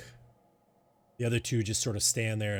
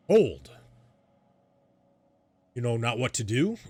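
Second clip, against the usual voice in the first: a booming shouted halt, much louder; commanding shout; 3 semitones higher, 7 dB louder than usual. Acted. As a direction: stop them in their tracks with a shout. GM voices stranger halting player.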